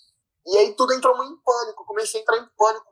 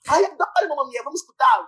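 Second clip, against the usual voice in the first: mock girly voice, higher, bubbly; girl's voice; 6 semitones higher than usual. The speaker imitating the girl asking to play a song, higher and bubbly. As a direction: chirp it like an excited girl.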